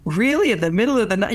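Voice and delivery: a high, delighted "Really?" that lifts up and stays bright; impressed surprise. Retold or imitated. Store woman hears he's buying milk for his wife, impressed surprise. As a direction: marvel at him like he's a hero. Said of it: "You can just see the tone of her voice".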